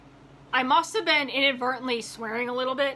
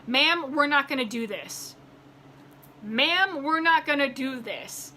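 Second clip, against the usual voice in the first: stern agent voice; slower than usual. Retold or imitated. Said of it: "she said".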